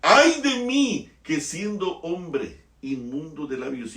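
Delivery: loud, slow cry of woe; anguished lament. Acted. Isaiah lamenting before God, loud anguished wail. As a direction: wail it as a confession. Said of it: "quoting Isaiah's lament".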